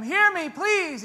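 high, loud, drawn-out begging; pleading scream. Retold or imitated. A worshipper screaming at God, pleading. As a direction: shout up to heaven, desperate. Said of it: "we're screaming at him".

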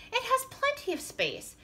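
high-pitched character call. A narrator's reading. Beaver telling friends about his roomy house, calling high. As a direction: keep calling the offer out, high. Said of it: "called Beaver".

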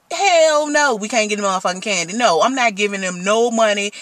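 sharp, fast angry retort; angry outburst. Retold or imitated. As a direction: snap back in anger. Refusing the kids outside.

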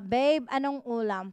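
slow, drawn-out loving "Babe"; sweet babe question. Retold or imitated. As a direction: coo it to a lover, slowly. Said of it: "Akala ko ganito". (malambing at mabagal na "Babe")

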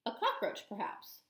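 soft, sly warning; sly hushed warning. Acted. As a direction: drop to a sly hush.

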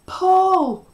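high, loud, desperate yelling; frantic high shouts, each falling off; screamed. A narrator's reading. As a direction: scream urgent commands. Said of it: "I screamed".

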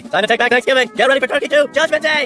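high, loud movie-trailer bravado; rallying cry. Acted. Cook out to redeem himself, rallying cry. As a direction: proclaim it like a battle cry.

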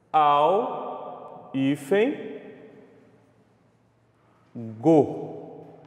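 "Al, hífen, go" with long gaps between parts; spelling out the split. Shown as a demonstration. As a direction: dictate "Al, hífen, go" piece by piece. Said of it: "Como que a gente vai separar?". ("Al, hífen, go" pausado, parte por parte)

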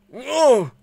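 high, loud startled cry; alarmed, loud and slow; startled shout. Real, not acted. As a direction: jump at the crash. Door crashes in, shock.

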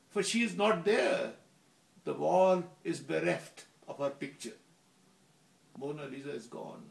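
deliberate poetry reading with a dramatic swell; recite, building to an emphatic peak, then dropping away; poem recitation. Acted. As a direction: declaim the poem's ending in measured phrases. Reads own poem aloud.

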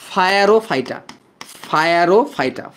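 ফায়ারোফাইটা spelt out as "fa-ya-ro, fai-ta"; ফায়ারোফাইটা with F opening both halves; memory-aid pronunciation. Shown as a demonstration. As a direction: say "fire-o" at the start of ফায়ারোফাইটা. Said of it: "পাইরোকে উচ্চারণ করবা ফায়ার".

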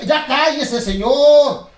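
high, loud shut-up shout; loud shush. Acted. To the rude dummy, a loud high shut-up.

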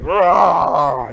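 short loud rah shout; a pumped-up roar; loud excited rah; hype roar. Real, not acted. Hyping up viewers.

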